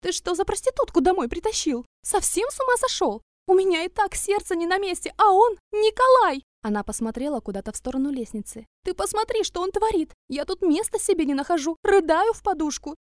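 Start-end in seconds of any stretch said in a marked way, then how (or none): 0.0-6.4 high, loud hysterical shrieking; shrieking mother. A narrator's reading. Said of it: "тут же завизжала на всю квартиру". 8.8-13.0 high, loud hysterical shrieking; shrieking mother. A narrator's reading. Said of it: "завизжала на всю квартиру".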